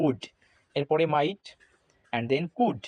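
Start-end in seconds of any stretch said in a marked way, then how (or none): 0.1-0.2 উড with a silent L; correct pronunciation. Shown as a demonstration. Teacher explaining the spelling, pronounced without the L. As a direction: say উড as "ood", leaving out the L. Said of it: "এটার উচ্চারণ হবে".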